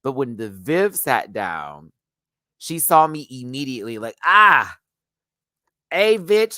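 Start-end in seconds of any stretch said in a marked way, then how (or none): 4.2-6.6 high, loud excited squeal of hello; excited greeting. Retold or imitated. Viv spots her friend and squeals hello, excited. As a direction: greet your old friend with a loud shriek.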